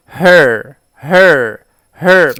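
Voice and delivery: her بصوت عالي جدًا ومؤكد، ثلاث مرات; اهتف her بقوة عشان الطلاب يرددوا وراك; تكرار بصوت عالي. Shown as a demonstration. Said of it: "قول معايا". (مدرس بيخلي الطلاب يرددوا her بصوت عالي جدًا)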